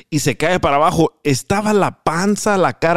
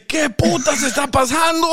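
laughing quote; 11 semitones higher than usual. Retold or imitated. Revived man's confused outburst.

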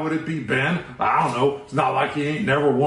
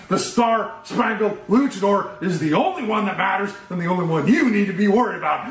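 booming wrestler boasts; 4 semitones higher than usual. Acted. Wrestler promo building up.

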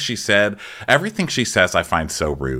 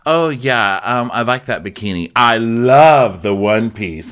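drawn-out gushing on the one piece; bitchy fake praise; 4 dB louder than usual. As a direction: imitate backhanded sweetness, stretching it out. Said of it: "it just comes off as bitchy".

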